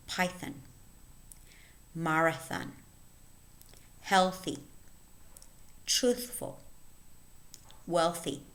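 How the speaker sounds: isolated words, carefully articulated with long pauses; listen-and-repeat word reading. Shown as a demonstration. Teacher reading a word list for learners, careful and separated. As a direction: read each word as a model to copy. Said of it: "Listen and repeat".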